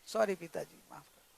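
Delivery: low, soft, soothing apology; calm apology. Acted. Daughter-in-law apologises to angry father-in-law, calm. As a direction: apologise gently to cool him down. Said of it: "शांत रहना थोड़ा".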